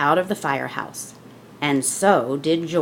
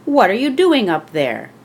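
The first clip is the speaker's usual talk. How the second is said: fire chief calling up; 4 semitones higher, 5 dB louder than usual. Acted. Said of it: "called the fire chief".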